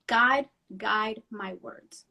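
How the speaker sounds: slow, hushed prayer; a whispered plea to God; prayerful. Retold or imitated. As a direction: pray each word slowly. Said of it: "I always say".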